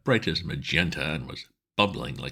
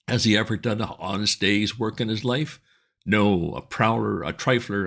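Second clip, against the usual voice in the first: harangue the crowd like a fiery agitator; bearded speaker denouncing two gentlemen to his audience; ranting street orator; 5 semitones higher than usual. Acted.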